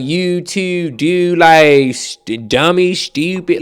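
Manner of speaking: slow, drawn-out mock New York accent; stretched-out fake New York slang; mock put-on accent. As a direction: imitate someone faking a New York accent. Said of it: "you don't talk like that".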